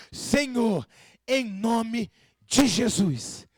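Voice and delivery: slow, drawn-out invocation; measured calling on the Lord; prayer invocation. Shown as a demonstration. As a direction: pray it out deliberately, phrase by phrase.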